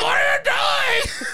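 high, drawn-out panicked wail; freaking out. Retold or imitated. Patient protesting to dentist mid-injection, hammed-up panic. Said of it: "I'm freaking out".

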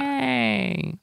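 bigger, brighter yay; enthusiastic yay. Retold or imitated. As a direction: cheer it out. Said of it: "but more enthusiastic than".

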